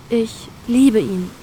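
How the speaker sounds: a dreamy declaration of love; warm, smiling. Acted. Girl telling her crew she loves him, slow and smiling. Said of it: "grinst sie warm".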